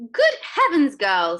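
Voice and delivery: very high, loud screech. Acted. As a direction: screech at her. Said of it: "screeched Missus Beauregard".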